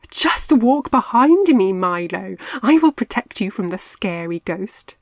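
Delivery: Marty teasing Milo, chuckling. A narrator's reading. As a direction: tease Milo with a grin. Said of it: "chuckled Marty".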